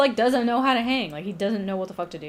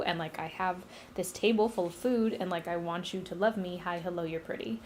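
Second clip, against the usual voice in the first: quick, softer awkward ramble; nervous wooing; 3 semitones lower, 6 dB quieter, faster than usual. Retold or imitated. Hades woos the woman he took, mock awkward and hurried. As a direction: tumble shyly through it, getting quieter and faster. Nervous suitor rushing out his plea.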